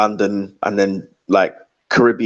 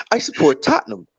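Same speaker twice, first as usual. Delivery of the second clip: higher-pitched impression for a prank call; Prime; 7 semitones higher than usual. Guest pretends to call up the Terrace as Prime, high mimicking voice. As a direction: put on a high voice, mimicking for laughs. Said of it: "that's prime, yeah".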